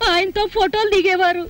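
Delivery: proud words breaking into tears; wife near tears over her missing husband; tearful boasting. Acted. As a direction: voice catching on a sob as she boasts.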